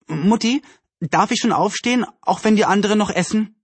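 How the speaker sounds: put-on high, childlike request; eager pleading. A narrator's reading. Anne asks her mother to leave the table, eager.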